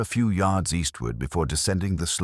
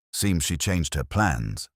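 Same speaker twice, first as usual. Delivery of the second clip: muttered. Acted. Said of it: "Holmes muttered".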